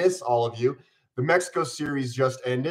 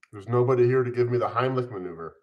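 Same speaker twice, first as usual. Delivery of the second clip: laughing; faster than usual. Real, not acted. Joking about choking while eating.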